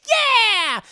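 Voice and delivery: high, loud drawn-out whoop; rallying cheer. Retold or imitated. Acting the girls off to fight the witch, loud whoop. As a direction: yell it like a battle cheer.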